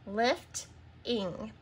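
LIFTING split as lift, pause, ing; syllable by syllable. Shown as a demonstration. Teacher answering the syllable question, LIFTING split in two. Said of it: "What are the syllables in the word lifting?".

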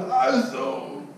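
high, slow, laughing wheeze of a feeble threat; old customer out of breath warning the rep, mock feeble; breathless mock threat. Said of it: "they're running out of breath".

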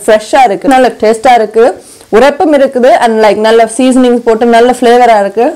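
talking between bites; chewing while talking. Real, not acted. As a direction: mouth partly full of chicken. Seen 3: Holds chicken leg at mouth, biting between words throughout.

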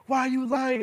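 retold accusing question; mother confronting daughter.

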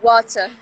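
"Water" said as "wɔɾɐ", the T like an R; tapped T in water. Shown as a demonstration. Tapped T, guest imitating American speech. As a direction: roll the T in "Water" into a quick tap. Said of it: "igual se fosse R".

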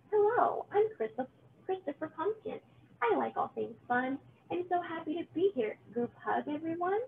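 high, bright-hearted new arrival; cheerful pumpkin. Acted. Christopher Pumpkin greeting the witch and pumpkins, cheerful and high. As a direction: bounce in, delighted to exist.

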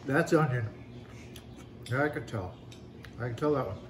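blocked nose, nose pinched shut; wearing nose plugs. Real, not acted. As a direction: talk with nose plugged. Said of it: "Boy, it's hard to eat with your nose plugged".

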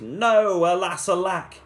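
hammed-up loud lament; crying out. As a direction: cry out as she slips away. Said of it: "The prince cried".

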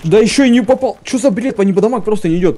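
frustrated outburst. Real, not acted. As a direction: yell at the broken game. Gamer furious at missed hits.

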